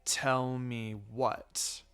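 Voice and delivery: slow, quiet, suspicious question; slow, low quiet challenge. Acted. Itachi catches them keeping a secret, slow and quiet. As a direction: let it land slowly, suspicious.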